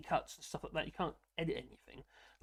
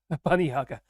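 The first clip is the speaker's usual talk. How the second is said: laughing dictation; 11 dB louder than usual. Real, not acted. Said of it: "you have to talk like a robot".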